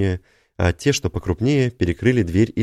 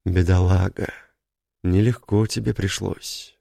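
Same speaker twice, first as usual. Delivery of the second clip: breathed out with hissing s; whistling s. Acted. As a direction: exhale it, letting the s whistle. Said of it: "выдохнул Кёна свистяще".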